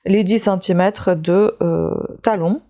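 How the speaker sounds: talking with a pill in mouth; chewing while talking. Real, not acted. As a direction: speak around something in the mouth. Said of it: "c'est pour ça que vous m'entendez manger quelque chose".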